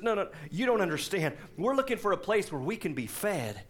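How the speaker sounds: lightly acted Southern church lady; imitating a Southern caller; Southern accent. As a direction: protest with a Southern twang. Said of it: "I picture this in a Southern accent".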